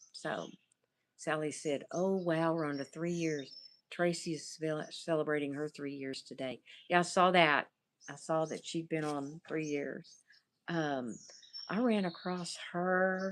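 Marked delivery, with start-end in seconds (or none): none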